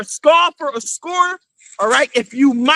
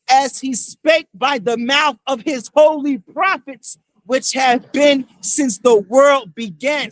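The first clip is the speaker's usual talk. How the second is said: slow, booming preacher's reading of scripture; scripture declaimed; slower than usual. Acted. Street preacher reads prophecy to the crowd, slow booming declamation. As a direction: proclaim each word like the prophet himself.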